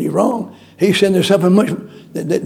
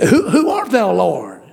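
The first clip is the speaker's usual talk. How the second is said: startled question; 3 semitones higher than usual. Acted. Paul startled, asking the voice.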